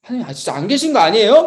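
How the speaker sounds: mock whiny grumble to God; grumbling complaint. New recruit blaming God on the uphill climb, mock grumbling. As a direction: complain like a let-down recruit, lightly acted. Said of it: "막 이렇게 막 투정 부리면서".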